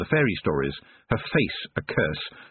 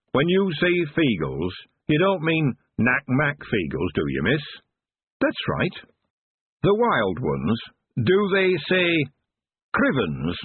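slow, higher, wary question; very slowly; 6 semitones higher, slower than usual. Acted. Dwarf asking Tiffany about the Feagles, very slow and wary. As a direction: ask each word carefully, afraid of the answer. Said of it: "he asked very slowly".

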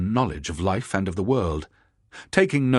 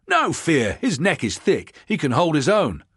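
loud, high scoffing shout; 8 semitones higher, 4 dB louder than usual. Acted. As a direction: shout it down, scornful. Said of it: "shouted one".

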